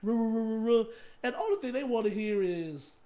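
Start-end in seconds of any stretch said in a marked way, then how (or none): 0.0-0.8 imitated angry blather; ruh-ruh grumble noises; mock grumbling. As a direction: run complaints into rolling nonsense noises. Mimics musicians' angry grumbling.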